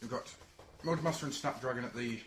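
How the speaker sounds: talking while eating crisps; words round a mouthful of crisps; crunching chips. Real, not acted. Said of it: "Sorry, I'm eating crisps at the same time".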